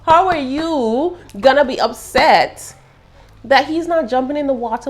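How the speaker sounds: high, laughing, slowed how; laughing disbelief. Real, not acted. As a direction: laugh through the question.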